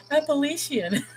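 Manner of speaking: Appalachian said high, a-pa-LAY-shun; high mock Appalachian a-pa-LAY-shun; imitating the video. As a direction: mimic the video's Appalachian lightly. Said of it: "They're like".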